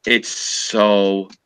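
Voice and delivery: slow, drawn-out sneer at the décor; slow mocking snooty drawl; mock posh disdain. Real, not acted. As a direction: stretch it out like a snob. Mocking the rich man's house.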